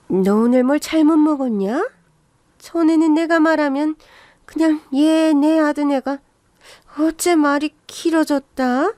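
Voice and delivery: lightly voiced, needling mother-in-law; a touch of huffy suspicion; suspicious mother-in-law. Mother-in-law questioning her suddenly talkative daughter-in-law, suspicious.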